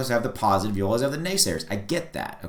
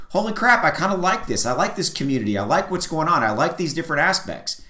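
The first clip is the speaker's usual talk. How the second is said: higher-pitched mock discovery, easing down; pleasantly surprised newcomer; 4 semitones higher than usual. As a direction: imitate someone pleasantly surprised, starting high. Voicing newcomers discovering the coin.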